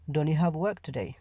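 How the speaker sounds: London way: "Don't you" with the t dropped, blended into one. Shown as a demonstration. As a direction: drop the t in "Don't", London style. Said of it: "ওরা এভাবে জিজ্ঞাসা করবে".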